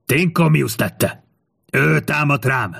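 high, slow, drawn-out shout; effortful cry to far-off countrymen; calling out. A narrator's reading. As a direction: accuse publicly, calling down the street. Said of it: "lekiáltott az utca túlsó végében".

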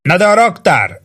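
high-pitched exasperated officer's yell; narrated shouted objection; shouting. A narrator's reading. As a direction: yell up with a curse at the end. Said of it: "kezdte ordítva Ross főhadnagy".

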